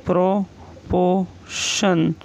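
drawn out very slowly, syllable by syllable; slow teacher dictation of प्रोपोर्शन. Shown as a demonstration. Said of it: "next है".

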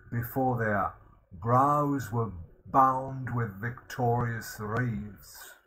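reciting verse. Shown as a demonstration. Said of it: "Richard will go through a list".

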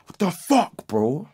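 high-pitched exasperated outburst; retold anger. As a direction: throw it out in mock outrage. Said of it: "started getting a bit angry".

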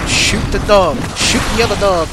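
high urgent shout at screen; shouting orders over battle. Real, not acted. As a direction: yell the command in panic. Yelling during enemy fight.

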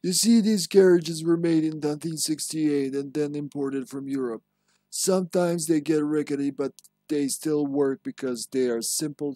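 in-game document read aloud; reading a memo aloud. Acted. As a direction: read out the letter with an instructive lilt.

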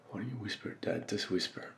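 soft, hushed plea; gently coaxing. Acted. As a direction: coax him quietly, tenderly. Coaxing dying father to whisper.

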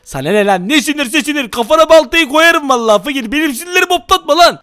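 hammed-up snarling at the friend; angry act. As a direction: shut him up, mock furious. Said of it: "sinirli taklidine geçelim". (sahte öfkeyle susturma)

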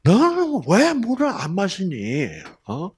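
high, loud scolding question; nagging scold. Acted. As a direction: scold him for not drinking water. Scolding wife over water. (물 안 마신다고 나무라는 잔소리)

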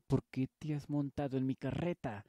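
put-on angry farmer shouting at a girl in his cart. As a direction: bark the order to get down. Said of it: "No tienen por qué gritar".

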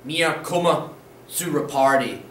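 "Mir komme zu a party" slowed, weight on "komme"; slow model answer. Shown as a demonstration. Teacher giving the answer to students, slow and deliberate. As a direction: say it slowly, leaning on "komme". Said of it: "What would it be?".

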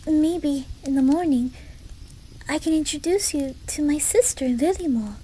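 put-on livelier, lifted childlike enthusiasm; eager excitement. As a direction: share play plans with growing eagerness. Eagerly planning games with new friend.

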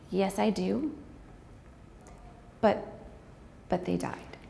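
quiet and breaking, holding back tears; tearful. Real, not acted. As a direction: force the words out through tears. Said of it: "Ugly tears".

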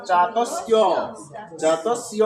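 "জাতস্য" as ja-tas-iyo; demonstrated pronunciation. Shown as a demonstration. Teacher repeats the answer for students, "জাতস্য" as ja-tas-iyo. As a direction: open the ending of "জাতস্য" into s-iyo. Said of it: "তাহলে উচ্চারণ কি হলো".

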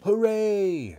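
loud, high hurrah; jubilant cheer. A narrator's reading. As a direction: cheer it out triumphantly. Husband celebrates her disappearance.

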